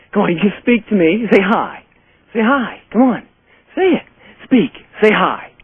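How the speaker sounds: coaxing the dog. Real, not acted. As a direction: sweet-talk the dog into speaking.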